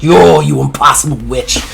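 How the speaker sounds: menacing inner voice. Acted. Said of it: "he's like".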